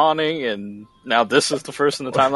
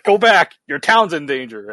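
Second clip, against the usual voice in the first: game NPC alarm; 4 semitones higher, 4 dB louder than usual. Retold or imitated. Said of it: "they'll be like".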